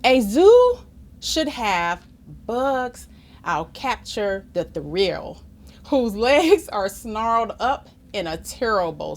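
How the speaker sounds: measured, expressive picture-book reading; story narration. A narrator's reading. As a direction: read it aloud to children with clear phrasing. Reads story aloud.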